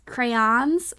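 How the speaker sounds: crayons as cray-AHNS, last vowel as in Don; crayons rhyming with Don. Shown as a demonstration. Trying how some people say it, crayons rhymed with Don. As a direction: try crayons with an open "ahn" ending. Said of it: "I'm gonna try it".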